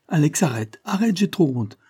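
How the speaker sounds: supplication aiguë, un peu plus forte; s'écrie. Acted. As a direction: une fille qui n'en peut plus de honte. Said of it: "elle n'y tient plus et s'écrie". (Mimi supplie Alex, voix montée)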